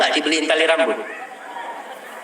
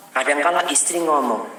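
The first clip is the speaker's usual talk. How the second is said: normal talking voice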